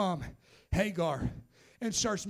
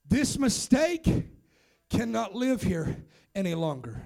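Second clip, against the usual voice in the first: had enough; 2 semitones lower than usual. Acted. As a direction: lay it down with weighty pauses. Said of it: "Sarah had enough".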